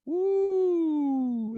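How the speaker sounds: high, bright whoop of joy; excited whoop. Real, not acted. Instructor whooping to class while stepping out, a high joyful woo. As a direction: let out a happy whoop mid-move. Joyful cry during movement.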